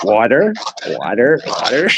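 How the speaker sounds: water repeated with a rising, teasing lilt; mock British water. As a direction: tease the British way of saying water. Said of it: "when they say water".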